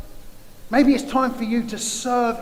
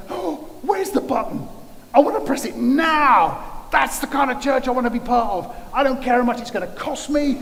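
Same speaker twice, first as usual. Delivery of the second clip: higher, louder, bubbling mock eagerness; eager churchgoer; 5 semitones higher, 4 dB louder than usual. Preacher imitating eager churchgoers, raised and excited. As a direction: play them desperate to press the button.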